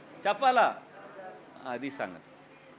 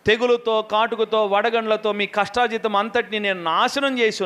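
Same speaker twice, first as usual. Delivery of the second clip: scripture reading. Acted.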